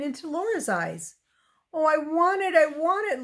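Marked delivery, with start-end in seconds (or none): 1.7-3.2 put-on higher-pitched, pleading little girl; insistent, begging child's plea. A narrator's reading. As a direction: plead like a child who wants it badly. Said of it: "Laura begged".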